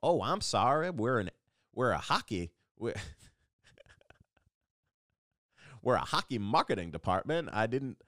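hammed-up Southern accent for a flustered marketing man; dumb Southern accent. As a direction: plead innocence in a put-on Southern accent. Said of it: "Southern accents because".

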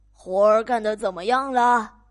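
loud, demanding farmer; 懒农夫大声嚷嚷; farmer yelling. Acted. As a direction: yell it from bed like a lazy boss. Lazy farmer yells again.

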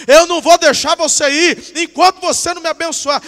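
loud, high shouted demand; desperate insistence. Acted. Jacob demanding a blessing from the angel, insistent shout. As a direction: shout it as someone refusing to let go.

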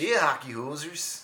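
slow mock-Canadian hoser voice; Canadian accent. Comic showing co-host a slow Canadian hoser accent. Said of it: "Let out the inner Canadian".

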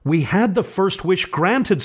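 high feverish insistence; burning with urgency. A narrator's reading. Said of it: "said the old woman feverishly".

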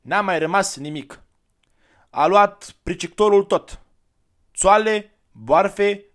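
put-on high, loud child's voice, near crying out; a boy pouring out the family's loss; upset village boy. Boy tells of the confiscation.

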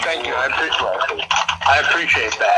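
talking while crunching chips; mouth full. Real, not acted. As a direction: speak through a mouthful of chips. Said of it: "What kind of chips are you eating".

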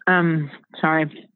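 talking with food in mouth; mouth full. Real, not acted. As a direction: apologize through a mouthful. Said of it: "I keep digging in".

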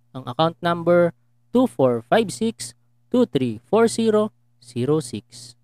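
slow, deliberate number reading; lotto announcer. Acted. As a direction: read digits like a lottery draw. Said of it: "parang announcer sa Lotto".

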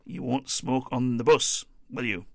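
retold bus driver's firm warning to passengers; stern warning. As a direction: lean in on the passengers with a mock stern check. Driver warns passengers not smoking.

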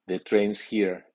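"train's" stressed, with a falling end. Shown as a demonstration. Teacher gives a noun example, strong stress on "train's". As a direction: put the strong accent on "train's". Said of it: "el nombre lleva acento fuerte".

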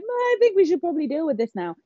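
high-pitched mock dad voice; imitating dad. Daughter retells dad finding her panicking, high mock voice. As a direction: put on a high, careful voice for dad. Imitates dad's understated suggestion.

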